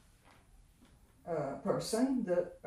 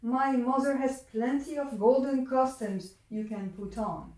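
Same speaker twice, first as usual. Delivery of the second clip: luring Earl King; 4 semitones higher than usual. Acted. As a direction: lure the child in sweetly. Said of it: "The Earl King".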